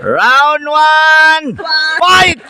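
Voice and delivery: loud, punchy round call, rising; fighting game announcer. Acted. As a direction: hype it like an arcade announcer. Starting the match.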